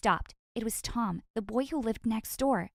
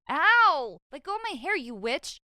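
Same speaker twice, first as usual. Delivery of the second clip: pained scream; 4 semitones higher, 5 dB louder than usual. A narrator's reading.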